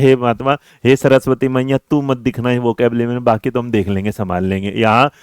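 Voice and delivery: a hint of a student begging Saraswati; mock prayer.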